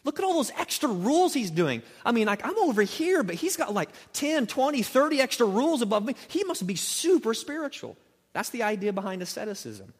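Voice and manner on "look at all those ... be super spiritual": a gawking admirer, mildly mocking; lightly voiced onlooker gushing over a holy man; mock impressed onlooker. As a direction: play the starstruck bystander, lightly. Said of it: "the world can look on me and go".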